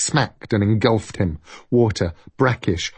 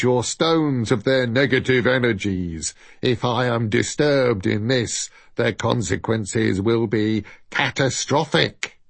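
deep put-on voice. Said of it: "He made his voice as deep as he could".

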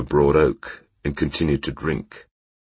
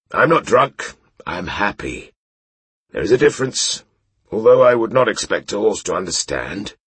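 tipsy knight voice; 6 semitones higher than usual. Acted. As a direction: insist you're sober while clearly tipsy. Drunk knight protests.

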